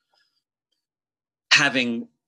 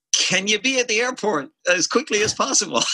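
imitating Rob; 12 semitones higher than usual. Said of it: "And he's like".

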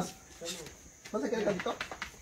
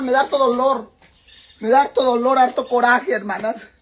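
mock grief; 6 dB louder than usual. Real, not acted. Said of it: "estoy triste".

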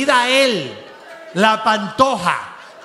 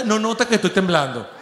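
mock doubtful reading; 3 semitones lower than usual. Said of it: "¿Quién coño canta ahorita?".

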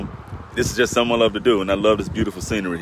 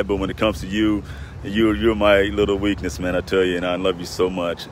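choked up; 3 semitones lower, 3 dB quieter than usual. Real, not acted. Father fighting tears over his daughter's birthday, choked up. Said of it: "I'm gonna get choked up a little bit".

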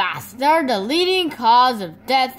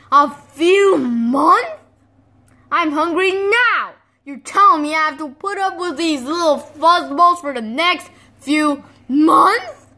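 loud high wail of protest; outraged whining; 4 semitones higher, 5 dB louder than usual. Acted. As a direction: whine in disbelief. Hungry outrage.

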